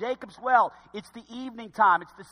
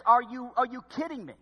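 higher, sarcastic disbelief; 4 semitones higher than usual. Acted. Samaritan woman retorting to Jesus, sarcastic. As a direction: imitate her incredulous comeback. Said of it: "so she gets kinda sarcastic".

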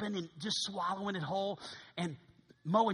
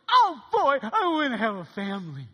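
much higher and louder, thrilled; excited Ben; 6 semitones higher, 12 dB louder than usual. Retold or imitated. Ben learns he has a new family, high and thrilled. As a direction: burst out with childlike joy.

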